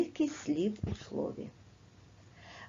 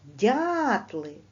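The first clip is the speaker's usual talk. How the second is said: Дятли with a louder, leaned-on дя; stress on first syllable; 3 dB louder than usual. Shown as a demonstration. Teacher marks the stress for pupils, leaned-on. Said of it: "На перший".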